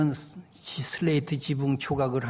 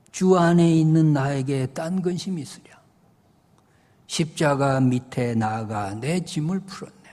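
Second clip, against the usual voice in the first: hymn verse recitation; 3 dB louder than usual. Acted. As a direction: recite the verse like a solemn poem.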